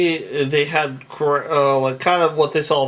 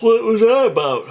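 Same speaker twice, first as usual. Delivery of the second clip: high, hammed-up take on a young woman's question; squeaky mock girl voice; 8 semitones higher, 3 dB louder than usual. Retelling a show girl's line in a high put-on voice. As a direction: pitch it way up, then drop back to normal on the redo. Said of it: "I'm sorry".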